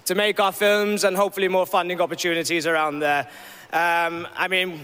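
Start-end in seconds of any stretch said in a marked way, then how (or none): 0.0-2.0 excited. Real, not acted. Filmmaker's hopeful acceptance speech.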